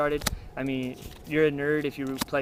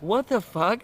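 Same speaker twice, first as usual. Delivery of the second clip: baffled outburst; 7 semitones higher, slower than usual. Retold or imitated. Opponent's baffled reaction acted out.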